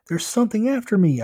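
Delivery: high, loud, panicked warning; urgent yell. A narrator's reading. Chased kid yells for the angry driver's help. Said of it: "I yelled".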